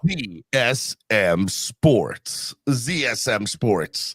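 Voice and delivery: slow, drawn-out sponsor tag; deep announcer ad read. Acted. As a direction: stretch each letter like a radio spot.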